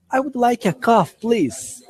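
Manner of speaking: high-pitched, expressive model sentence; with emotion. Shown as a demonstration. English teacher modelling a coffee order, with emotion. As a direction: lift it high and act out the request. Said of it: "repita colocando emoção".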